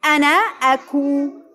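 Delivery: very slow, word-by-word verse recital; slow recitation. Shown as a demonstration. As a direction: lead the children through it slowly. Leading children in slow group recitation. (ترديد بطيء كلمة كلمة)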